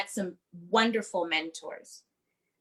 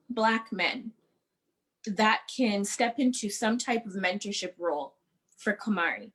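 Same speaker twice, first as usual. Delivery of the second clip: teary-eyed. Real, not acted. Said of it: "sorry, I'm getting teary-eyed".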